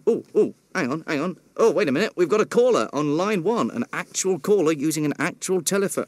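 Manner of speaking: suddenly delighted there's a caller; excited surprise. Acted.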